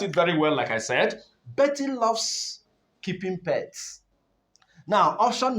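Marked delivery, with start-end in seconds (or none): 1.5-4.0 loves lifted high and drawn out; teacher stressing loves. Shown as a demonstration. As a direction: lean on loves, slow. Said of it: "which is the particular word under emphasis".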